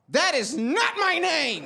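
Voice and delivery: mock dignified correction; stiff formal denial. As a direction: insist like showing your ID. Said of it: "So I was like".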